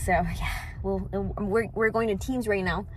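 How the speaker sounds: soft hushed whisper. Real, not acted. Quiet update, kids nearby.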